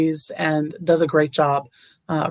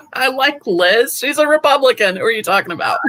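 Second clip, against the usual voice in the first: high-pitched mock indignation after a laugh; playful protest; 8 semitones higher than usual. Candidate playing along with host's teasing, playful protest.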